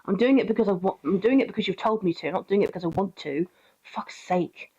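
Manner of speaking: muttered, half-whispered grumbling; mock teen sulking, mostly whispered; moody teen dog voice. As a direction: grumble it like a sulky teenager under your breath. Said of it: "he's just like".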